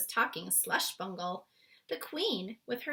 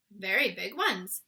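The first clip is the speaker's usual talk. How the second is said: proudly; 5 dB louder than usual. Acted. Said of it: "said proudly".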